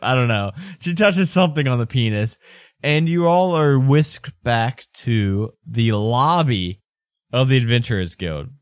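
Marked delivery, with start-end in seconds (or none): none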